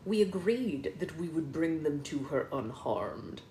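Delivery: understated villain's regret; regretful. Acted. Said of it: "Malum Claw said regretfully".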